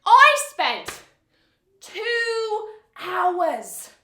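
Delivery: put-on comic breakup monologue in a New York accent. Actor performing a scene take in a New York accent. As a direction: lean into the New York vowels, wry and wounded. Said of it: "My New York accent was especially rusty".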